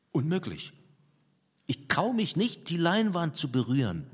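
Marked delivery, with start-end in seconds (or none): 1.7-4.1 groaning. Acted. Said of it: "stöhnte er".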